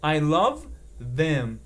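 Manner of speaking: slow, careful English model sentence. Shown as a demonstration. Teacher modelling the right sentence slowly. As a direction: say it slowly as the correct form. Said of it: "Eu não posso falar I love they".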